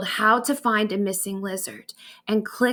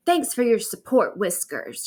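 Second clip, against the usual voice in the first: sarcastic. Acted. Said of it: "she said sarcastically".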